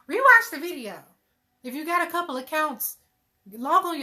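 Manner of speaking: playful, punched-up shout to the viewers; loud emphatic plug. Real, not acted. Host urging viewers to replay for the analytics, loud emphatic plug.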